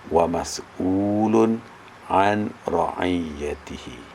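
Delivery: measured Arabic reading, vowels stretched out; rhythmic hadith recitation. Shown as a demonstration. Teacher reads again so students copy the rhythm, measured recitation. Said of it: "tiru rentak saya baca".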